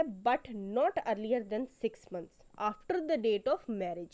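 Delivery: very slow, word by word, dictating the statute; slow dictation. Shown as a demonstration. Law teacher reading the statute to students, slow dictation. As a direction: read each word out slowly so students can copy it. Repeats statute text aloud.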